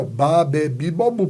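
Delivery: "Ba, be, bi, bo, bu" as a syllable drill; sílabas demonstradas. Shown as a demonstration. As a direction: run through "Ba, be, bi, bo, bu", each vowel clear. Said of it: "Tem que ter o A, o E, o I, ó". ("Ba, be, bi, bo, bu", consoante com cada vogal)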